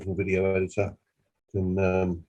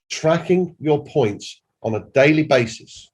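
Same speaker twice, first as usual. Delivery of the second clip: "daily" underlined, slow and raised; emphasis on daily; 4 semitones higher, slower than usual. Shown as a demonstration. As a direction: underline "daily" as the key word. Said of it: "I underline that word daily".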